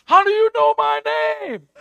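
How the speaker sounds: high, loud, astonished question; a girl's startled delight; amazed question. Retold or imitated. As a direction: ask it as if stunned. Mia's surprised reply retold.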